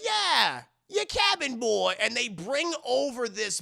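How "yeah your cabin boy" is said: high, loud pirate voice; hammy pirate insistence; insistent pirate rat. Retold or imitated. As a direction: remind the captain as a crewmate. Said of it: "he goes".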